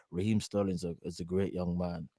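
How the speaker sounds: mock Northern Irish manager praising a player, quietly; Brendan Rodgers accent. Fan imitates Brendan Rodgers dodging a Balotelli question, Northern Irish accent. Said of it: "Was that accent better".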